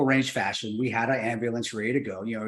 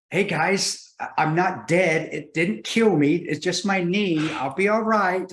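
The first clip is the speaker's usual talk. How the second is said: higher, slow, breezy reassurance to the group; mock reassuring; 6 semitones higher, slower than usual. Injured man reassuring silent crowd at the range, mock breezy. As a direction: play it off for the silent crowd, slowly. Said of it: "I'm looking around and I go".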